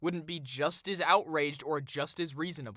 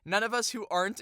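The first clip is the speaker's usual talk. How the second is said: higher put-on writer voice; high mock-earnest read-aloud; mocking article voice; 5 semitones higher than usual. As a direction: slip into the raised parody voice for reading. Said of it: "I keep doing the voice".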